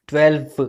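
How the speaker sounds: ट्वेल्व with the final v sounded clearly. Shown as a demonstration. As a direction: say ट्वेल्व ending on a buzzing v. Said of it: "clearly pronounce कीजिए ट्वेल्व".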